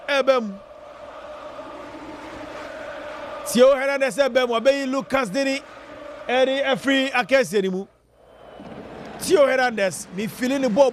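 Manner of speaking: quick excited radio commentary calling the match; live play-by-play. Acted. Radio host calling the France Sweden match live, excited. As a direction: ride every pass like a live radio caller.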